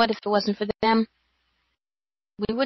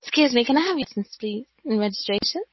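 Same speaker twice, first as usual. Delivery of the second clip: lightly voiced traffic cop, higher and fast; a pretend officer asking for the licence, quick and a bit higher; mock police officer; 3 semitones higher, faster than usual. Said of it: "Could you imagine me going up to your car".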